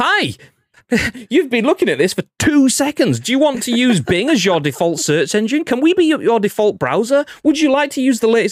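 high, loud, pushy, nagging voice.

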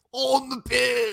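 very high, creaky, croaking fake English accent. Asked by the other speaker to redo the line as Andy Reid, Andy Reid with English accent. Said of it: "do that as Andy Reid".

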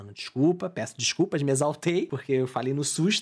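ordinary talk

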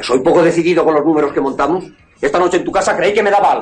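shouting. Protesting on the phone at being called indecisive: shouting. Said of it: "No grites".

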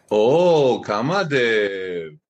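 slow, mock-sweet, slightly sarcastic tone. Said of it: "this is a little sarcastic".

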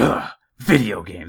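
fed-up, disapproving, mad, exasperated tone. Retelling a wife's reaction to the game meltdown: imitating wife sounding mad.

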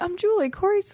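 bright, cheerful tone. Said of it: "I'm like".

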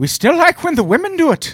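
put-on Irish accent, pitched very high. Speaker quotes what people said decades later, in an irish accent. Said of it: "That was a good Irish accent".

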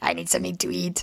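swallowed, creaky put-on voice, back in throat. Voicing a hungry little boy in a swallowed put-on voice. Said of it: "I can do that voice if you'd like me to".

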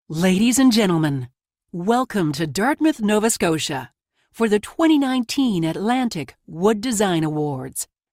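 warm, confident announcer voice. Announcing the welcome at a design awards evening: welcoming and strong announcer. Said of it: "It was welcoming and strong".

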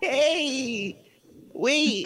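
put-on very high young country farm-kid voice, drawn-out hey. Practicing character voices with others: farm kid voice. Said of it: "Kind of sounds like a farm kid".

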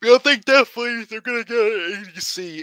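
yawning while talking. Giving a prediction about a team's signing, talking through a yawn. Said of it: "I was yawning".

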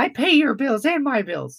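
very high, squeaky cartoon-mouse voice. Retelling what Don said on the show, imitating Don's high voice. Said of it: "he's a little higher than most guys".

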